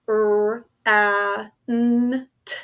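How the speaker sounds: "r, a, n, t" as isolated phonemes; phonics-teacher "r, a, n, t" with gaps; single sounds. Shown as a demonstration. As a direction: sound out "r, a, n, t" one by one, short a. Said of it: "four sounds".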